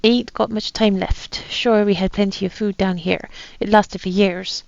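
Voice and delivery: put-on light pirate accent reading a captain's journal; lightly voiced pirate accent, a gruff old sea captain. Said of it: "you don't have to put up this accent anymore".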